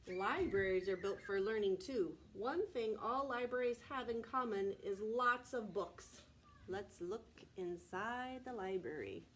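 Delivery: loud, animated read-aloud; reading to children. A narrator's reading. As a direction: read it big and bright for little listeners. Reading picture book aloud.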